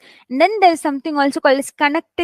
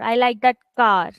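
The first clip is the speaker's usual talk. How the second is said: "car" held long at the end; stress on CAR; 2 semitones lower than usual. Shown as a demonstration. Teacher repeating the example for students, stress on "car". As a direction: put the weight on CAR. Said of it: "trying to stress on the word car".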